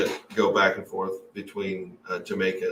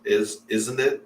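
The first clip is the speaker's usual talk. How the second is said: tag question "is, isn't it?" rising at the end; British isn't it; slower than usual. Shown as a demonstration. Host mimics British film characters, rising tag question. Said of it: "they end every sentence with".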